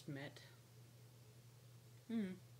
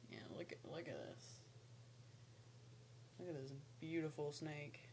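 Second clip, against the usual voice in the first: excited wildlife host whisper; 7 dB quieter, faster than usual. Real, not acted. Showing the snake to camera.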